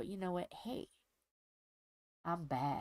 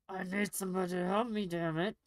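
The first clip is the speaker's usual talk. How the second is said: retold yell for help, louder; 5 dB louder than usual.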